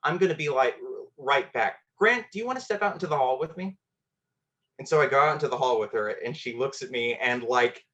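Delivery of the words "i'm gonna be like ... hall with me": higher, breezy teacher voice, lightly done; cool casual teacher. Retold or imitated. Teacher covering for a crying student, lightly voiced casual. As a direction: keep it casual so nobody notices. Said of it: "she plays it very cool and casual".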